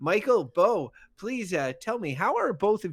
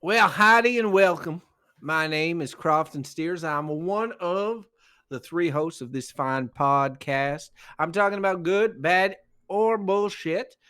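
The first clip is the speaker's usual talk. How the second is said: put-on Southern accent. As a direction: play a folksy Southern host with a light Southern accent. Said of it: "that's an adorable patois".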